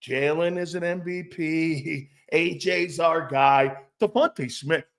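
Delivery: slow, placating coach voice; lightly voiced coach handing out praise; coach reassuring. Coach patting players on the head, slow placating. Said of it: "Nick's gotta go around patting".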